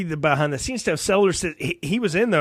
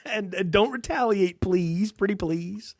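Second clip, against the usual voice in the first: pleading president; slower than usual. Retold or imitated. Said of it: "continued president plea".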